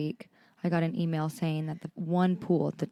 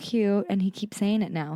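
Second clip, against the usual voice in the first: normal talking voice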